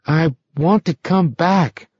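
slow, strange inner voice; fearful, from within. A narrator's reading. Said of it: "saying from within himself".

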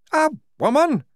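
high, loud incredulous cry; the major can't believe it; astonished major. A narrator's reading. The major learning Igorina is a woman, loud disbelief.

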